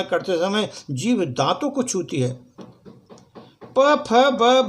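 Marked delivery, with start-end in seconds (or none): 3.8-4.7 "प, फ, ब" called out louder and higher, lips pressed together; labial letters demo. Shown as a demonstration. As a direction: pop the lips for "प, फ, ब". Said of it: "labial letters demo". (होंठ मिलाकर "प, फ, ब" ज़ोर से बोलना)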